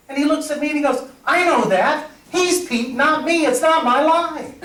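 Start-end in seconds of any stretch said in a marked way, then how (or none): 1.3-4.5 much higher, laughing insistence; Pete insisting. Retold or imitated. A castmate sure the line belongs to his character, higher laughing insistence. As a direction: dig in with a laugh.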